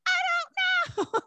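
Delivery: exaggerated, stretched-out helpless reply; retold bafflement. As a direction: imitate a whole group at a total loss. Group's baffled reply, acted out.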